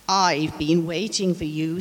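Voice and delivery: a hint of a deep old octopus. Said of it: "said the octopus in a deep voice".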